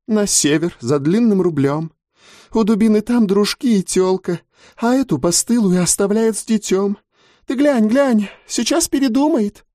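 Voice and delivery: high, sharp mocking crone; high mocking old gossip; Razluka's voice. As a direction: sneer it out high above the narration.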